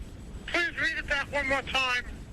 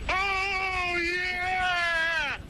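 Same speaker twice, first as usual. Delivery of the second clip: ecstatic shout; 3 semitones higher than usual. Acted. Ecstatic reply to each item.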